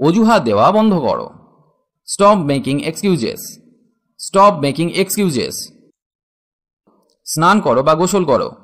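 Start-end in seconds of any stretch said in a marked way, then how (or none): 2.1-5.6 very slow, each word stretched out; stretched model phrase for students; slow teaching demo. Shown as a demonstration. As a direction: drag it out word by word for learners. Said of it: "teacher models English phrase".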